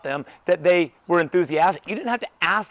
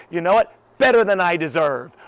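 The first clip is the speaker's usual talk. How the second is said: enthusiastic; 5 dB louder than usual. Acted. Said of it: "I'm gonna be enthusiastic".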